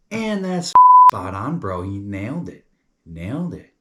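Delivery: very high, loud exclamation; hyped-up praise. Real, not acted. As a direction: burst out in approval.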